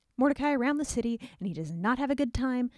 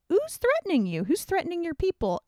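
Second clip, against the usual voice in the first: high, startled questions; shocked he protects her; alarmed king; 8 semitones higher than usual. Acted. The king demands to know who threatens Esther, high and alarmed. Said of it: "And he's like".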